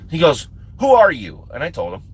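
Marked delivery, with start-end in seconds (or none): 0.8-1.5 louder, higher mock demand; retold challenge. Instructor questions the stranger at the pool, retold challenge.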